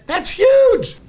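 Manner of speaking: high, loud burst of awe; amazed exclamation. Retold or imitated. First-time visitor seeing inside the track, amazed exclamation. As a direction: blurt it out, wowed.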